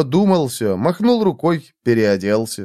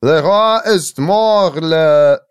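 slow, high, loud French recitation; poetic declamation; 4 semitones higher, 4 dB louder, much slower than usual. A narrator's reading. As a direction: declaim grandly, drawing out each word. Dictating a poem in French.

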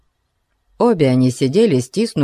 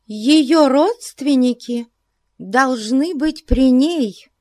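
high, slow self-righteous; mild pious declaration; 11 semitones higher, slower than usual. A narrator's reading. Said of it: "заявила эта любезная женщина". (с ханжеской важностью)

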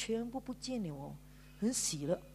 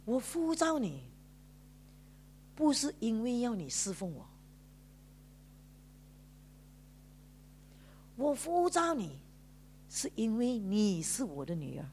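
voice of God. Retold or imitated. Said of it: "上帝讲一句话".

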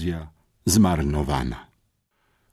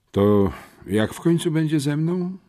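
impatient question, pitched higher; 11 semitones higher, 3 dB louder than usual. A narrator's reading. Pucułka impatiently reminds the boys about himself, impatient. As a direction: push for an answer, fed up with waiting. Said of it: "przypomniał o sobie zniecierpliwiony Pucułka".

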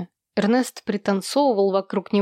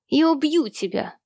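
roaring; 6 semitones higher than usual. A narrator's reading. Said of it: "тут же взревел Эрни".

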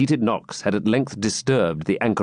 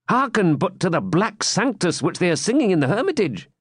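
high, sly jester voice; a light, mocking court fool; 8 semitones higher than usual. Wamba's jesting aside to Gurth.

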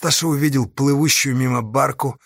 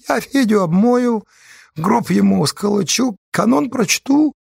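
thin quiet voice; 12 semitones higher, 3 dB louder than usual. A narrator's reading. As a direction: speak thinly like a meek simple soul. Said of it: "тонко и тихо пояснил Спирька". (тонкий тихий голос)

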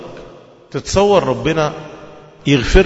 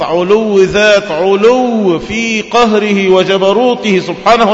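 preaching; 3 semitones higher, slower than usual. Acted. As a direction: declaim each attribute with weight. Preaching on God's loftiness.

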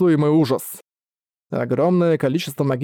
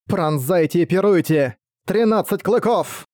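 battle incantation; 4 semitones higher than usual. Acted. Unleashing noble phantasm.

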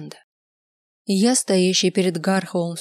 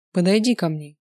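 a firm order in another voice; command. Acted. Kels orders Linda to come closer. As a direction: summon her to you. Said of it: "прозвучала команда".

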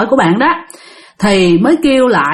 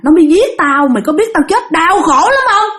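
mildly raised, aggrieved ranting; fierce defiance; 5 semitones higher than usual. Retold or imitated. Vengeful spirit telling the master about her killer, fierce. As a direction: retell a spirit's bitter outburst. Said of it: "Lúc đó bả làm dữ lắm".

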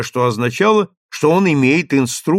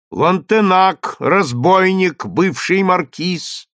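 booming crier; 6 semitones higher, slower than usual. A narrator's reading. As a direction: boom it out again like a trumpet. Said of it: "гремел теперь как труба".

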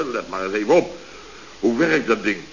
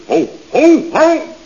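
geschrokken ho; 12 semitones higher, 7 dB louder, much slower than usual. Acted. Schrikt van eigen verspreking.

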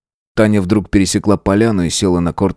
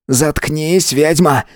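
higher, angry cry; angry shout; 8 semitones higher, much slower than usual. A narrator's reading. Matvey angrily shouts at Tanya. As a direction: shout her down. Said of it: "крикнул Матвей".

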